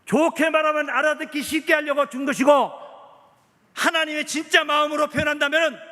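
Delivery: loud, insistent pulpit delivery; forceful preaching. Acted. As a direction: drive each phrase home to the congregation.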